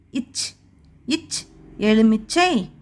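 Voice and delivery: இச், எலுமிச்சை said slowly with a pause between; teacher linking a sound to a word for children; slow phonics model. Shown as a demonstration. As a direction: separate இச் then glide into எலுமிச்சை. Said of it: "என்ன எழுத்து வருது?".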